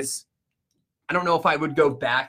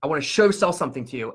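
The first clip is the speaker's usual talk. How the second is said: brisk, with "show sell" run together; quick imitation of a sales line; imitated slip-in; faster than usual. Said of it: "And he said it like that".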